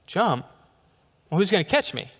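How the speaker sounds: mock disbelief. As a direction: act out doubt at being told to jump. Retelling his alarm atop pole.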